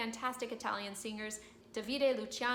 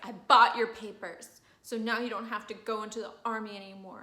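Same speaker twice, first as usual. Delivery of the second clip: proud announcement; 8 dB louder than usual. Acted. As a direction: blurt it out triumphantly. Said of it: "she's like".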